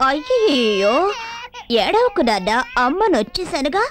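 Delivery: put-on tender cooing to a crying baby; soothing. Mother comforting her crying baby, tender and cooing. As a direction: hush the baby gently.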